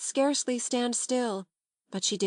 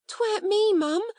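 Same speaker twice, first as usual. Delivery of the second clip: much higher, loud tearful plea; sobbing; 12 semitones higher, 5 dB louder than usual. A narrator's reading. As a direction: plead through tears, a frightened servant girl. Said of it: "said Becky, sobbing".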